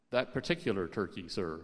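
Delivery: low, measured, formal query; understated, deferential manager; dry hotel manager. A narrator's reading. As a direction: drop low and soften, politely doubtful. Manager coolly queries Dave's demand.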